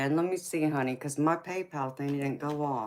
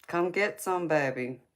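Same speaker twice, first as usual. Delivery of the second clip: flirty tease; 3 semitones higher than usual. Shown as a demonstration. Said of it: "See how you like it then".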